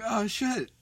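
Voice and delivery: startled sidekick thrilled to be noticed; flustered Virgil. Retold or imitated. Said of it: "Virgil's like".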